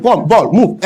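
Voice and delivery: lightly imitated coach giving one-word orders; a hint of a foreign coach at training; Clemens Westlauf. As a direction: mildly mimic broken-English drill commands. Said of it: "that's how he talks".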